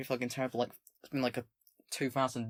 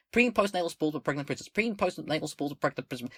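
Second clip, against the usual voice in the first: quick tongue-twister; 2 semitones higher, faster than usual. Shown as a demonstration. Streamer jokingly repeating a tricky line three times, fast. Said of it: "saying that three lines fast".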